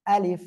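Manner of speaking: আলিফ with a light puff of air on the final f; teacher's model আলিফ, airy final f; articulation demo. Shown as a demonstration. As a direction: say আলিফ carefully, releasing a little air at the end. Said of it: "হালকা বাতাস বের করে উচ্চারণ".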